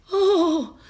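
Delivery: high, slow, syrupy mock gratitude; sappy sarcastic thank-you; mocking gushing thanks. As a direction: gush it out like a fawning fan. Mocking people who thank vets.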